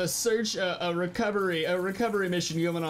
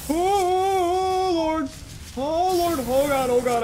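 panicked cries; 10 semitones higher, 5 dB louder, much slower than usual. Real, not acted. Stuck, dragon attacking.

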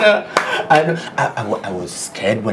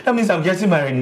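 much higher, fast, laughing; laughing disbelief; 11 semitones higher, faster than usual. Acted. Groom hearing the wedding cost, fast, high laughing delight.

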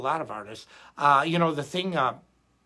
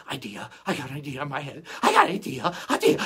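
eager dog voice; 5 dB louder, faster than usual. Retold or imitated. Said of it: "like a dog wanting to go out".

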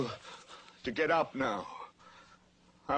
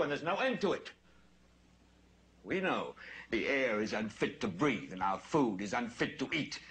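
building on-air rant; 2 semitones lower than usual. Acted. Newsman to TV viewers, a bitter rant building. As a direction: speak straight to the viewers, weary and grim.

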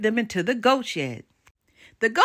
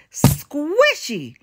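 higher, booming giant's cry; 5 semitones higher than usual. A narrator's reading. Giant to the three heroes below, booming. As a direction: boom it out from high above. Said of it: "boomed a voice from high above them".

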